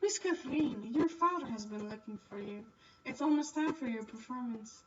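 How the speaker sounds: a hint of a polite nobleman; courteous gentleman's voice, barely changed; lightly played noble addressing a girl; lightly voiced Marquise.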